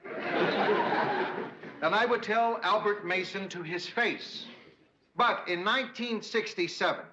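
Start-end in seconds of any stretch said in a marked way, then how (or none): 0.1-4.5 laughing through speech. Shown as a demonstration. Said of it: "try out his little speech on us".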